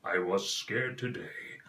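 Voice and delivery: a hint of a deep lion king; Mufasa voice. Shown as a demonstration. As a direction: speak like a grave royal father. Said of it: "the voice of Mufasa".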